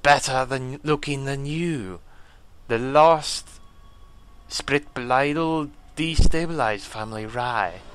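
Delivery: lightly strained alien-warrior voice; a measured, put-on warrior voice; painful character voice. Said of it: "That voice is a little painful".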